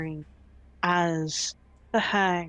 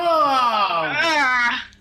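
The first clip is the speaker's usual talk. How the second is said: surprised shout; 5 semitones higher, 7 dB louder than usual. Real, not acted. Reaction to cliffhanger.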